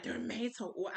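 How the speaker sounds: imitated questioning repeat; mildly incredulous echo; surprised echo. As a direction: repeat it back as if amazed. He echoes it in surprise.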